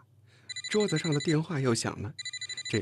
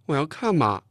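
coaxing plea, higher in pitch; suddenly softened tone; 4 semitones higher, 6 dB louder than usual. A narrator's reading. Chen Jing changing tack to coax, softened pleading. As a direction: wheedle for a look. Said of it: "陈静的语气突然又软了".

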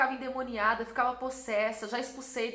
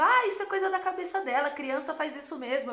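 imitating an irritated mother, high start then settling; mock indignant outburst; retold angry dismissal; 3 semitones higher, 3 dB louder than usual. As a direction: brush it off crossly, as a retold quote. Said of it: "ficou muito brava".

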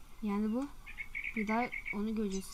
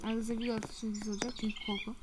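whispering; 2 semitones lower, 6 dB quieter than usual. Real, not acted. Scared whisper to viewers.

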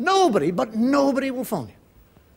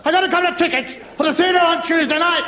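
louder, rushed, straining to be heard; speaking up louder; 3 semitones higher, 6 dB louder, faster than usual. Retold or imitated. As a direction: raise the voice over a bad line. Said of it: "I say".

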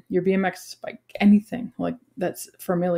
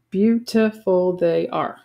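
poem reading; slower than usual. Shown as a demonstration. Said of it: "Line one has five syllables".

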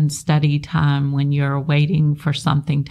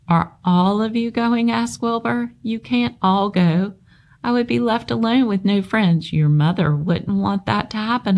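pleading pig; 5 semitones higher than usual. Acted. Wilbur pleads with spiders.

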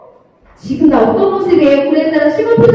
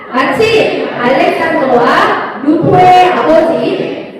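slow, measured Bible reading; scripture reading; slower than usual. Acted. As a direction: read the verse slowly together with the children. Reading scripture aloud slowly. (아이들과 함께 천천히 성경 읽기)

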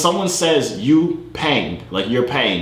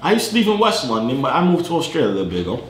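put-on casual British chat accent; faster than usual. Telling a stranger he's from the UK, put-on British accent. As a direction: pass yourself off as British. Poses as a Brit online.

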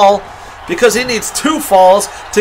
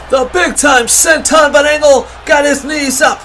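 wrestling commentator; 2 semitones higher than usual. Acted. Live wrestling play-by-play.

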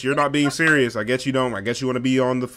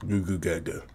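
mock baby talk; 4 semitones lower, 7 dB quieter than usual. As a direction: lower babbling baby noises to mock her. Mocking by babbling like baby.

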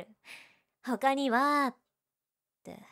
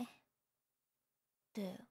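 ordinary talk

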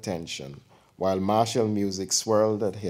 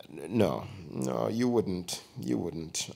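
soft, inward murmur; almost to herself; 5 dB quieter, slower than usual. Acted. Aunt musing to herself about the name, soft murmur. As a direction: say it mostly to herself. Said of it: "spoke almost to herself".

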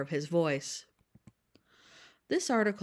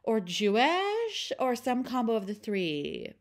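put-on high, slow Valley Girl gush; 3 semitones higher, 3 dB louder, slower than usual. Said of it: "I will be reading these quotes in a Valley Girl voice".

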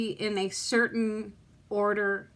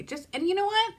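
higher, teary outburst; tearful break in the voice; crying; 9 semitones higher than usual. Real, not acted. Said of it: "sit here and cry on camera".

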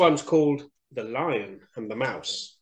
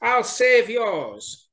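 high mouse voice, earnest promise; pleading little mouse; 10 semitones higher, 5 dB louder, slower than usual. A narrator's reading. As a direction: vow it in a squeaky voice, drawing out the end. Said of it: "said Little Mouse".

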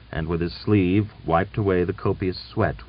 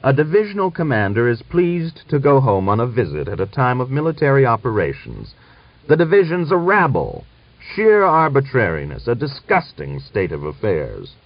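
loud, raised general's rant; thundering anger; 6 semitones higher, 4 dB louder than usual. A narrator's reading. General rebuking a divisional commander, thundering. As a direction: thunder disgust at a subordinate. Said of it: "The general's bass voice thundered louder and louder".

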